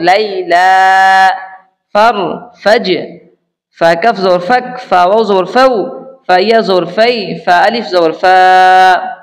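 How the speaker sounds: slow singsong drill, swelling into each joined syllable; spelling recitation. Shown as a demonstration. Teacher spelling sakin syllables for learners, slow singsong chant. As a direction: chant the letters slowly and stretch the final syllable.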